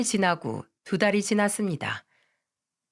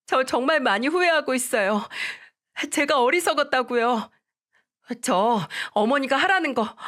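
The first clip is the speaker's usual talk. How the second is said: put-on higher, tearful-sounding young wife begging; a young wife pleading, voice pitched up; pleading daughter-in-law; 5 semitones higher than usual. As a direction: beg your mother-in-law not to force a divorce. Daughter-in-law begs forgiveness.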